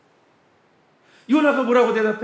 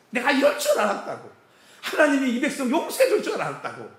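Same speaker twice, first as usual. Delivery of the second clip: higher, mock-indignant grumble with a laugh; sulky Jonah; 6 semitones higher than usual. Jonah complaining to God, mock sulky protest. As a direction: play a petulant prophet lightly. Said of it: "이러고 화를 내는 거예요".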